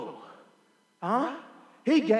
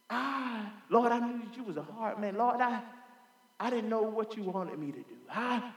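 fearful excuse; 10 dB quieter than usual. Retold or imitated. Lazy servant's fearful excuse.

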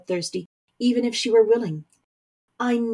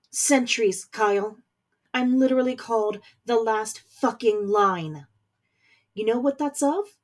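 rising voice; 2 semitones higher than usual. Acted. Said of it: "Kamina's voice began to rise".

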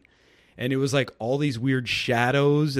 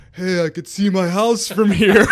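much higher and louder, laughing through the words; laughing excitement; 7 semitones higher, 11 dB louder than usual. Retold or imitated. Tripping kid shouts from his imagined helicopter, laughing loudly. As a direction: burst out giddy and amused. Out-of-body story punchline.

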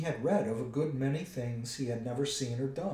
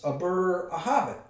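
loud, raised, cut-off stammer; frightened stammer; 6 semitones higher, 7 dB louder than usual. A narrator's reading. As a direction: blurt it and correct yourself nervously. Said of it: "shaking all over".

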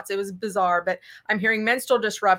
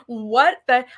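sudden louder shocked gasp of words; stunned what the; 5 dB louder than usual. Retold or imitated. Reading a death report that matches her scan, stunned. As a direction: blurt it out in disbelief.

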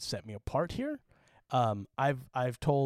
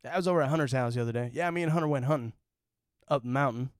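put-on Utah accent; faster than usual. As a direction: lightly put on a rural Utah accent, "Hunner". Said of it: "we never called him Hunter".

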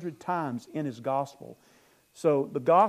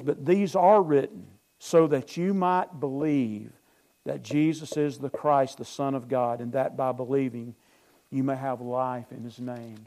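scripture reading. Acted. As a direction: read the verse out with weight. Reads scripture aloud.

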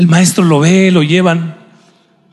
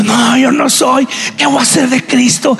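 Peter denying; 9 semitones higher than usual. Acted. Preacher voicing Peter denying Jesus, agitated. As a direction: deny him as if cornered.

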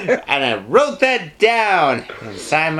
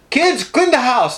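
high, slow holler from grandma; grandma ordering kids; 6 semitones higher, slower than usual. Acted. Grandma orders kids to clean, bossy holler. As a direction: call out a drawn-out, high order.

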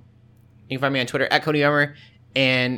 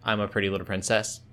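Shadow voice; 4 semitones lower, 5 dB quieter than usual. Retold or imitated. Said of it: "doing Shadow's voice".

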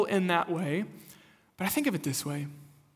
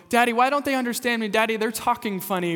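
put-on higher, louder, fast child whine; confused little girl; 5 semitones higher, 5 dB louder, faster than usual. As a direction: whine it like a puzzled kid. Daughter complaining to dad.

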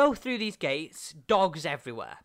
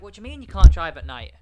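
incredulous outburst; 2 semitones higher, 14 dB louder than usual. Retold or imitated. Retold disbelief at warning.

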